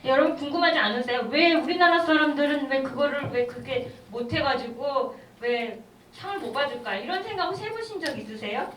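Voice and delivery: ordinary talk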